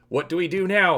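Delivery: loud high panicked yell. Acted. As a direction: shout it over the roaring wind. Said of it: "Han yells".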